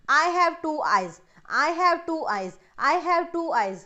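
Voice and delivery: slow, evenly measured demo repetition; reading aloud repeatedly. Shown as a demonstration. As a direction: say each line out slowly, as a learner would. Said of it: "आपने उसको three बार ही बोलना है". (धीरे-धीरे बोलकर दोहराना)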